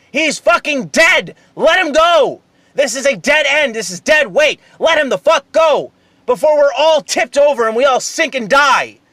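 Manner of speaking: frantic high yelling from a sinking raft; desperate screaming. Pretend. Ranter acting out a drowning man on a raft, screaming. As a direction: scream it like your life depends on it, pleading. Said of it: "I'm sitting there screaming".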